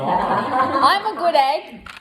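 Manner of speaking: laughing through the words; giggling. Real, not acted. Laughing at own pun.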